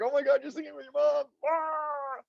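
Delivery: high, quick tearful gush into a wail; hammed-up blubbering; mock crying. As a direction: act moved to tears by a sweet video. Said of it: "I cry at".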